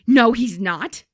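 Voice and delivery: loud, affronted denial; mock indignant retort. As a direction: imitate an outraged customer's comeback. Retold outraged customer snaps back.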